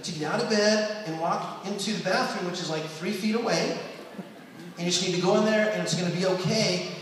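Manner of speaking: put-on soft, calm coaching a sick child; gentle reassuring dad. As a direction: soothe her softly. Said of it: "I'd talk to her and say".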